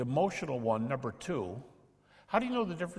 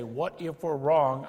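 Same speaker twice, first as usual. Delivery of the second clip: a touch slower worried what-if; lightly voiced anxious doubter; mock doubter; 5 dB louder, slower than usual. Shown as a demonstration. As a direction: voice the doubter's fear. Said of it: "If they say".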